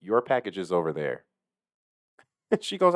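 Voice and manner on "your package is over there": flat, no emotion; deadpan it; monotone. Retold or imitated. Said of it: "monotone kinda thing".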